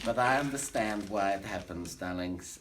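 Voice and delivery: put-on German accent of a comic showman; fake German accent. Bragging to the audience in a fake German accent. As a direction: camp cabaret star with a fake German accent.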